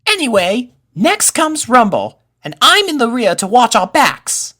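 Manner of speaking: high, bright-eyed colt voice, loud and eager; a plucky little colt taking charge of the order; young colt Pip. Acted. Pip telling friends the marching order, high colt voice.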